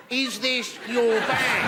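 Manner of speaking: slow, mild mock-polite question; a hint of a timid bystander; polite query. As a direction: ask it oh so politely.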